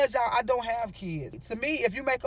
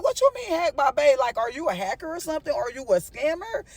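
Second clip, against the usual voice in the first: alarmed question. Retold or imitated. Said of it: "And I was like".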